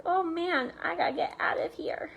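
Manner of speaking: quick whispered escape thought; panicked whisper. Retold or imitated. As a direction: whisper it like fleeing Goldilocks.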